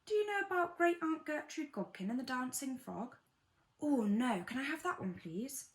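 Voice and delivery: lightly voiced eager child; child's voice. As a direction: ask like a child wanting a story. Child asking parent for a story.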